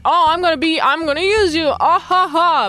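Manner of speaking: lightly gloating schemer with fake laugh; mock villain. Fred planning to use the peddler, mock gloating. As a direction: tease out a stagey villain's ha-ha-ha.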